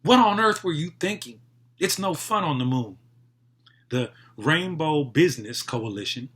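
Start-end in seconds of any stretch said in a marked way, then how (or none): 0.0-3.0 high, loud indignant scolding; scowling complaint that eases toward the end; scowling children. A narrator's reading. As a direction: protest like exasperated kids, starting high. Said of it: "Their children scowled".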